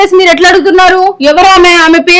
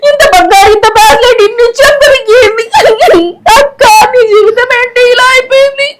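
higher, slow, crying lament; tearful lament; 4 semitones higher, slower than usual. Acted. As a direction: sob over her sister's fate. Sister laments sister's ruined life.

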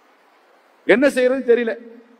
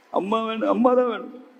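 mock crying; 2 semitones higher, 3 dB quieter than usual. Boy keeps asking for his mother, mock whimper. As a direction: imitate a child who will not stop crying. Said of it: "அழுகையை நிறுத்த மாட்டேங்கிறானே".

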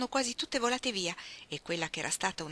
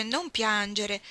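soothing; 3 semitones higher, 3 dB louder, much slower than usual. Acted. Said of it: "scoppiò in lacrime".

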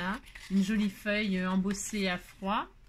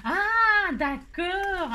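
surprised ah; 9 semitones higher, 6 dB louder, much slower than usual. Real, not acted. Suddenly gets the pun.

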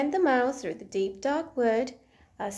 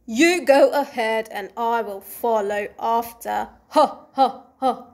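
gruffalo's mocking laugh; 6 dB louder than usual. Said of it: "bursting with laughter".

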